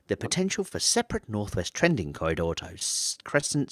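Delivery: a hint of late-night radio host. Reader retrying a tricky sentence, light late-night radio voice. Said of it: "I'm gonna go into my late night radio voice".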